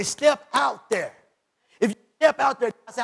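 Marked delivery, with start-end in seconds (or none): 0.0-1.1 God commanding. Acted. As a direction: boom it out as God's command.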